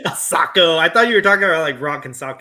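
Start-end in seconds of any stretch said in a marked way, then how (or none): 0.1-0.8 mocking laugh. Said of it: "don't make fun of my accent".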